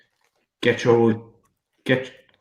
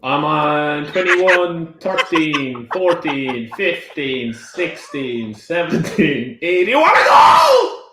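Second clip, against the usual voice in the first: excited; 2 semitones higher, 4 dB louder, slower than usual. Real, not acted. Counting up then yelling challenge.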